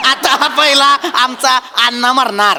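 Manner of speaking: slow emphatic repeat. Acted. Repeats it slowly, adding आमचा.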